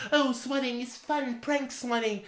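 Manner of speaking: mocking quote. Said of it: "people who think, like".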